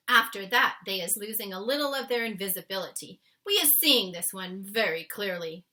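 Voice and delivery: a hint of the giant explaining gently; patient big friendly giant; lightly voiced BFG. The BFG explains dreams to Sophie, lightly voiced.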